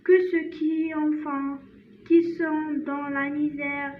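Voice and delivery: slow French read-aloud, stopping and restarting; halting poem reading. Shown as a demonstration. Teacher reads the poem one last time, slow halting recitation. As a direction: read carefully phrase by phrase, with hesitations.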